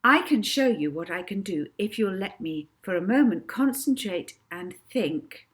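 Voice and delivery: a lightly voiced girl stage performer, grand and inviting; showman Molly. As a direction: announce it like a young showgirl to the crowd. Molly performs her stage act.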